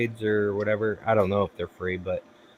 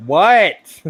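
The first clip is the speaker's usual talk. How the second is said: louder, higher retold snap; exasperated yell; 7 semitones higher, 8 dB louder than usual. Voicing a mother worn down by repeated calls, exasperated. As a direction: burst out after being pestered. Mother pestered, finally snaps.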